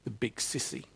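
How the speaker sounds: put-on quavering, barely-there child; shaky voice. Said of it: "a shaky voice says".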